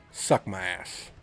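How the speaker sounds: ordinary delivery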